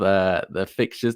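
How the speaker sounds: real voice crack on "fixtures" as it rises. Real, not acted. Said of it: "That was a bit of a voice crack".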